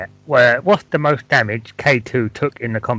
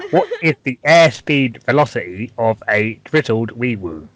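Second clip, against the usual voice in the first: careful repeat. Real, not acted. Repeating after listener says pardon.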